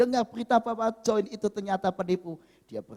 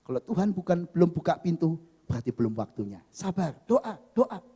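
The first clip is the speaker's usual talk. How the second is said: calming pastor. Retold or imitated. Pastor counselling a crying single woman, calming. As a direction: reassure gently in a lowered voice. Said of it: "Pendeta itu bilang".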